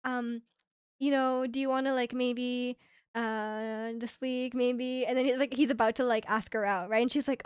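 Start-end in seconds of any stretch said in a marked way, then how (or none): 0.0-5.1 halting mock shy ask-out; hesitant confession. Old acquaintance about to confess to her, imitated hesitant confession. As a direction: stumble softly through an awkward romantic lead-in. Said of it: "about to confess to her".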